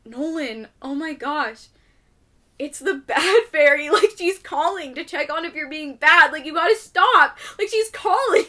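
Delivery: hammed-up alarm to scare the kid; mock bad fairy warning. Calling partner to scare child.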